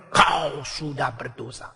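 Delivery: soft, slow reproach from within; a hushed, slow voice of conscience; conscience quietly accusing. Acted. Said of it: "hati nurani". (suara hati nurani yang pelan dan menegur)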